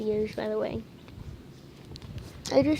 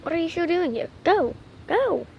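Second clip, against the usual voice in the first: shouting; 4 semitones higher, 4 dB louder than usual. Acted. Shooing kids away.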